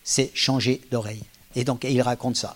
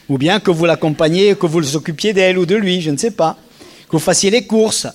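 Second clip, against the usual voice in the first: louder, higher accusing jackal; raised, reproachful jackal voice; 4 semitones higher, 5 dB louder than usual. Acted. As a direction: scold like a resentful partner. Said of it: "là, je suis un peu chacal".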